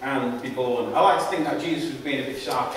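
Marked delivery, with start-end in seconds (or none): 0.0-0.9 measured public Bible reading; emphatic openings, falling phrase endings; scripture reading. A narrator's reading. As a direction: read it out deliberately, phrase by phrase. Reads the Bible passage aloud.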